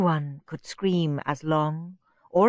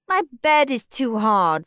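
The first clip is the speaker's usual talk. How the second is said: whiny Margaret; 5 semitones higher, 4 dB louder than usual. Acted. Margaret keeps complaining.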